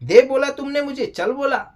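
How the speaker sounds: a touch of wounded indignation; mock indignant retelling. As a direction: act out her complaint that he ordered her around. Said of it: "सारा ये बोलती है कि".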